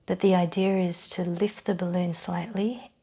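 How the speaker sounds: calm guided-relaxation voice with long pauses; measured meditation-style instruction; guided breathing exercise. Real, not acted. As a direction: lead them gently through the breath, unhurried.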